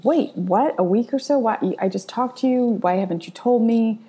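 wait, what, rising disbelief; surprised. Retold or imitated. Shocked at mother's news.

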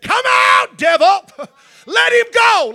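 high, loud cry at the demon; shouting the demon out; commanding shout. Retold or imitated. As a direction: order the devil out at full voice. Preacher reenacts casting out demon.

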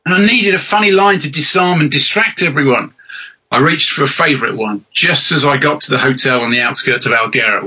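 lightly performed book reading; story narration. Acted. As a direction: read your own comic opening to an audience, measured. Reads own book aloud.

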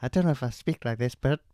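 hammed-up fake pop-star voice note; impression of a pop singer. Podcast host faking a voice note from a pop singer, hammed-up. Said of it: "He did send in a voice note".

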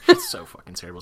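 laughing high and hard. Real, not acted. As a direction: crack up while saying it. Laughing at a bad song.

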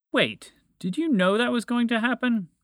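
high, loud indignant question; angry. A narrator's reading. Moose confronts dragon about creature's fate, angry high voice. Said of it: "Montgomery the Moose asked angrily".

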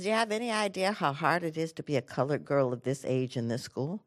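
composed, softly pointed question; very calm. Retold or imitated. Mother challenging the principal, very calmly. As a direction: keep it even and controlled. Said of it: "She very calmly says".

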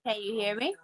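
choppy bad connection audio; breaking up space radio. Real, not acted. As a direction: voice cutting out on the line. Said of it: "you breaking up a little bit".

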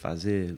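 "fazer" with an open, strong final "zer"; stress on last syllable. Shown as a demonstration. Musician showing Brazilian Portuguese stress, "fazer" weighted on "zer". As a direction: lean on the end of "fazer". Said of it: "a sílaba forte e aberta é sempre a última".

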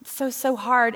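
lightly acted poor-me complaint; mock self-pity. Speaker mimics her old self feeling sorry for herself, mock self-pity. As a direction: softly moan as if sorry for yourself. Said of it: "I always felt bad for myself".

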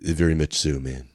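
low, sleepy stoner reply; mellow, stoned-out murmur. Acted. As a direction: let it sink softly, as if very high. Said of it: "Is this how you talk when you're high?".

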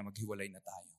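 low, soft, final; husband coldly ending the marriage; cold quiet. Acted. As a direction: say it low and shut the door. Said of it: "Sabi niya".

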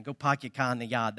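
rough imitation of a Boston accent; a hint of badly done Boston accent; attempted Boston accent. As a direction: drop the r's like a Bostonian. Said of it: "I can't do the Boston accent".

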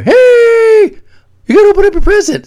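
high, fast call from another room; calling through the door. Retold or imitated. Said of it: "I'm in the shower today and I hear".

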